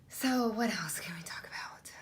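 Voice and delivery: breathy whispered aside to the camera. Real, not acted. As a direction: hush it like a little secret. Changing topic, aside to camera.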